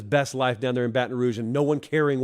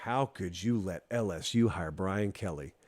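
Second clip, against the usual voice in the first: hushed knowing aside; 6 semitones lower, 7 dB quieter than usual. Retold or imitated. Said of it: "And I was saying".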